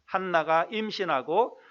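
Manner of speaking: slow, measured Bible reading; scripture reading. Acted. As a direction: read the verse out slowly and formally. Reads scripture aloud. (느리고 또박또박한 성경 봉독)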